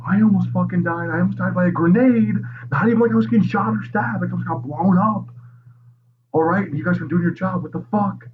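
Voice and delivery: high, loud furious tirade at the police; hammed-up outraged archduke screaming at police; furious rant. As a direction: tear into the cops, pitch way up, yelling. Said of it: "He starts laying into people, calling people cunts".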